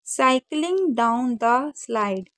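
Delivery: slow careful reading aloud; slow, careful model reading for students. Shown as a demonstration. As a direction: read it out slowly for the class to follow. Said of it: "सही से reading करा देती हूँ".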